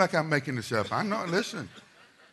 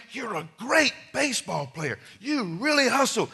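hyped adults; 6 semitones higher than usual. Retold or imitated. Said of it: "telling him".

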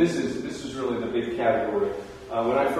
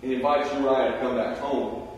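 normal talking voice

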